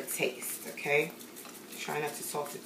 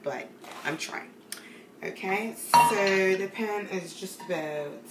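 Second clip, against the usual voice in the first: fake English accent. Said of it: "my fake English accent".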